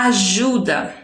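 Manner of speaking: ajuda with the weight on ju; stress on penultimate syllable. Shown as a demonstration. Teacher showing pupils a penultimate stress, ju stressed in ajuda. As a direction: lean on the middle syllable of ajuda. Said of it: "a sílaba mais forte".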